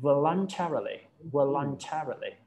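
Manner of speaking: voluntarily said very slowly, syllable by syllable; teacher slowly models voluntarily for the student; slow model pronunciation. Shown as a demonstration. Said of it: "มันก็ยาก".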